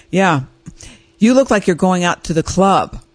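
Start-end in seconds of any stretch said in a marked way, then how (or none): 1.2-3.0 measured retelling of a husband's criticism; lightly imitated deadpan husband; imitating husband flatly. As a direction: quote the husband, trying to keep it undramatic. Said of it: "I'm trying to say it flatly".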